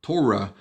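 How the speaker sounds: Torah with first-syllable stress, TOR-ah; English Torah. Shown as a demonstration. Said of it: "vamos dizer geralmente Torah".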